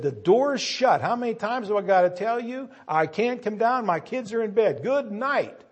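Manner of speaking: high, exasperated voice of a man who won't come down; fed-up refusal. Acted. Man upstairs to the knocking friend, a high, exasperated refusal.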